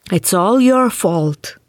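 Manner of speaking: wailing spirit. Acted. Unmasked spirit wailing its blame at Wilde. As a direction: drag it out like a howling ghost. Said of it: "the spirit wailed".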